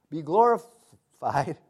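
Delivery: 'glorified' drawn out slowly, savoring it; slow repeat. Shown as a demonstration. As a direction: stretch out glorified. Repeats phrase, second slower.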